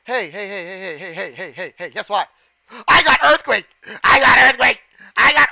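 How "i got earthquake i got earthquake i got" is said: loud, higher exclamation; excited yelling. Real, not acted. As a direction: shout it out eagerly. Excited about own move in battle.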